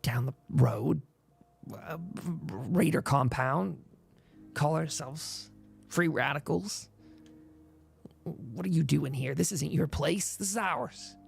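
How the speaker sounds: lightly voiced wary raider; a suspicious scavenger sizing them up.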